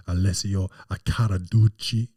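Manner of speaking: rolled Italian-style name; Italian pronunciation. Shown as a demonstration. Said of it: "he doesn't sound like that".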